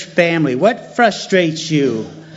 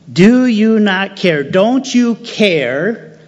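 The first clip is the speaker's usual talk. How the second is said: pleading; 5 semitones higher than usual. Acted. Repeated plea, pressed harder.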